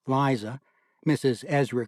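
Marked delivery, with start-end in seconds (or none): none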